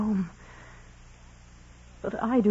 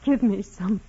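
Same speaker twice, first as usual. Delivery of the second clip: pleading demand; 4 semitones higher, 5 dB louder than usual. Acted. Desperate demand after whisper.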